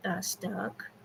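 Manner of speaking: шёпотом поправляет себя; whispered correction. Real, not acted. Whispered self-correction of slip.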